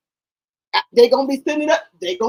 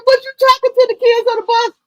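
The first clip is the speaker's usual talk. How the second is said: higher, louder scolding question; mother scolding; 12 semitones higher, 4 dB louder than usual. Retold or imitated. Mother scolding son about the kids, louder and higher. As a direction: call him out like a mama. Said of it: "I said".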